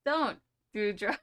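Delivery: slow, drawn-out mock warning in "Don't do drugs."; mock PSA. Shown as a demonstration. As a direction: deliver "Don't do drugs." as a hammed-up public service slogan, slowly. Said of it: "I'm just kidding".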